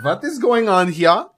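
put-on slow, puzzled German-accented question. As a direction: ask slowly, baffled, with a German accent. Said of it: "impressions of my accent".

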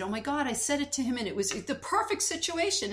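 excited retelling. Retold or imitated. Mother reporting that the advice worked, excited. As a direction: relay her delighted discovery, voice lifted.

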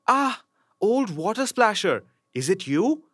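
put-on high, girlish princess voice. Princess startled to find the frog, high girlish voice. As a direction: speak up as the tearful young princess. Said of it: "said she".

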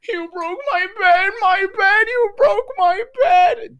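very high, loud, slow sobbing whine; mock crying. The crying girl accusing her, high sobbing wail. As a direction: wail it through tears. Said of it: "she was saying".

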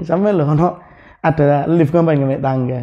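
retold, chuckling. Villager asks why he took the stairs, lightly amused. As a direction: imitate a villager asking with a hint of a laugh. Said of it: "Sambil ketawa gini nih".

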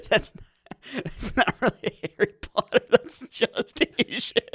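hammy put-on Asian accent; mock Asian accent.

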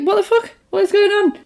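high-pitched retold bafflement; imitating someone baffled; mock bewilderment. Voicing character hit by eggs.

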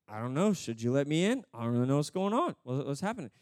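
lightly voiced clueless newcomer; bewildered thief. Thief unsure why he is in heaven, bewildered. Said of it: "the thief is just like".

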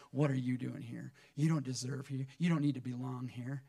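outright disapproval, spoken aloud; open rejection. Retold or imitated. Churchgoers confronting an unwelcome man, open rejection. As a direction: say it straight out, rejecting the newcomer. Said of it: "come right out and say that".

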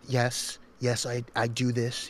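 lightly imitated over-articulating politician; over-articulate with the lips, mimicking; Donald Trump. Shown as a demonstration. Demonstrating how he talks, over-articulated. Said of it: "over articulating his lips".

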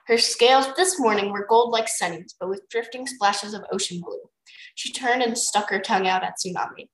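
easy read-aloud narrator; story narration. A narrator's reading. Reader telling friend a dragon story, narrating. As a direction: narrate it like a bedtime chapter.

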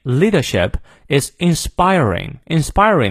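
"leadership" without its R, "inspiring" keeping its R; British R rule. Shown as a demonstration. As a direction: drop R in "leadership", sound it in "inspiring". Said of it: "要念的，因为在元音前". (英式发音："leadership"不念R，"inspiring"念R)

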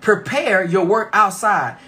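slow reading. Shown as a demonstration. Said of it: "let's break down this verse".

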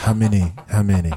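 low, insistent mock magician; lightly put-on illusionist pressing a volunteer; Chris Angel. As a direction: repeat it low and deadpan. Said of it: "your Chris Angel impersonation".

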